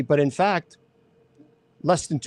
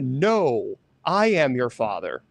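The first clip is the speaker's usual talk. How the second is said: corrected Vader quote; 5 semitones lower, slower than usual. Retold or imitated. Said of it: "It says".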